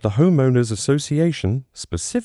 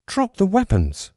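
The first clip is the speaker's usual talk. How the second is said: commanding roar, pitched up high; 8 semitones higher than usual. Acted. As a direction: bark the order like a police captain. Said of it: "she roared".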